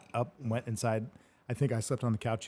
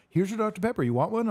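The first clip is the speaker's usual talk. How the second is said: mock high voice; 10 semitones higher, 5 dB louder than usual. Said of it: "And he's like".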